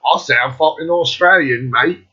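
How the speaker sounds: badly faked Australian accent; attempted Australian accent. Vlogger trying an accent that slips, shaky attempt at Australian. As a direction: have a go at sounding Australian. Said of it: "try and do an Australian accent".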